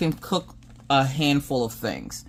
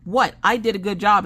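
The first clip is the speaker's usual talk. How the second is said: put-on higher-pitched kid defending herself; imitated indignant child; 8 semitones higher, 3 dB louder than usual. Daughter defends her cooking at dinner, mock indignant.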